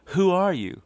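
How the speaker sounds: put-on young woman curious about a stranger, asks in a high loud voice; girl's curious question.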